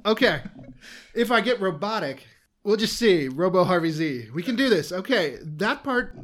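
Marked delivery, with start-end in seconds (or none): 1.1-4.9 enthusiastic. Pretend. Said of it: "Just, just be enthusiastic".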